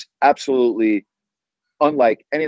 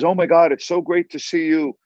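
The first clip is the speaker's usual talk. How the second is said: lightly imitated delighted woman, higher pitch; retold excited greeting; 5 semitones higher than usual. Gal behind the register greets the host, mildly imitated delight. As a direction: lift the pitch for her mild gush.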